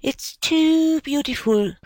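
put-on high, tearful child's sob; sobbing. A narrator's reading. Little Biddy to her mother, sobbing with happiness. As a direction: sob it out, overwhelmed with joy. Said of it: "sobbed little Biddy".

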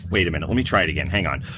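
ordinary talk, nothing marked

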